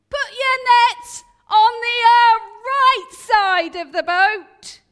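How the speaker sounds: loud call telling fishermen to cast on the right; shouting. Acted. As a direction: bellow the order from the shore. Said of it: "who it is shouting".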